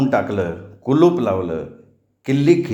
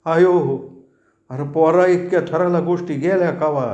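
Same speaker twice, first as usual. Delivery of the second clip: put-on a worried elder begging the boy to be humble; pleading old Chachaji; 4 semitones higher than usual. Chachaji laments and advises.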